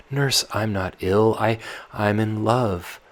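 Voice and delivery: put-on loud, restless girl pleading with her nurse; Tatiana, sleepless and pleading; young Tatiana. Tatiana confesses love.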